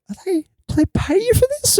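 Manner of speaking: squeaky high startled question; incredulous question. Retold or imitated. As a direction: pitch way up in baffled disbelief. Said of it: "looking in his eyes, like".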